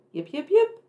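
high, loud yipping fox call. Acted. Little fox on the hill calling out loud and high. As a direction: yip it out high like a fox pup. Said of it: "She called".

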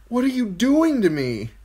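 high, loud tearful protest; tearful boy. A narrator's reading. Bran asking the crow as he plunges, tearful. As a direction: wail it as a distressed child.

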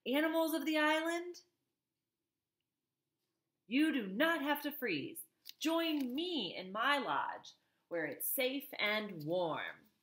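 high, slow robot call. Acted. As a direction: call out into the night. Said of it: "she called out to whoever was listening".

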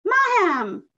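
high, loud trumpeting cry; crane call. A narrator's reading. Crowned crane calls out, high and loud.

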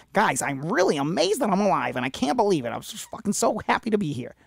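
exaggerated standard American accent; mock unaccented American. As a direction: put on an implausibly all-American voice, gushing. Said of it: "You think he sounds like this?".

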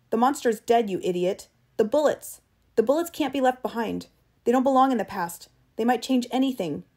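heated, forceful explanation; angry insistence. Acted. Travis demanding the bullets be dug out, angry insistence. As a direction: hammer the order home, irritated.

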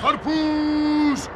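slow, stretched street shout on kan; vendor shout. Acted. Watermelon seller calling out to the neighbourhood, slow shout. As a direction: cry it down the street.

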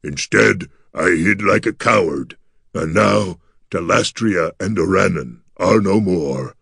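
mournful creature lament, often slowed; gargoyle near sobbing. A narrator's reading. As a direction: lament heavily in the monster's voice, with only a touch of a sob. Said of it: "The gargoyle's voice turned into a sob".

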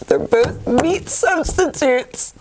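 telling a dad joke. Acted. Delivering the punchline slowly.

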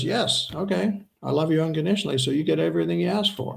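lightly voiced loving God; God answering. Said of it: "God goes".

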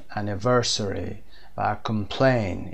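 anniversary and complain slowly with unstressed schwa; schwa demo. Shown as a demonstration. Teacher models unstressed schwa in complain. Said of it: "دقت کردید حتماً".

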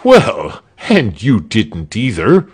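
mild bad-tempered snap; snapped. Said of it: "snapped Arnold of Melchthal".

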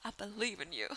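lightly sung-out pep talk; encouraging. Pretend. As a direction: cheer her on playfully. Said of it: "that's what this part's gonna be called".

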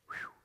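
acted "whew" of relief; sigh of relief. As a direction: blow out a short relieved breath. Scared patient relieved in joke.

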